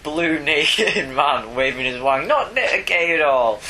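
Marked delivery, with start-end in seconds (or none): 2.3-3.6 high mock denial; sarcastic. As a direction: say it with obvious sarcasm.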